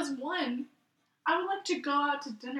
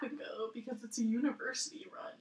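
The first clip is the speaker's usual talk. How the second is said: whisper; 6 dB quieter than usual. Real, not acted. Whispered aside.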